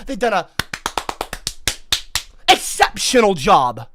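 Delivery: dry mock praise; sarcastic. Vlogger mocks white people with sarcastic praise. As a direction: praise them with a sneer. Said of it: "I'm being sarcastic".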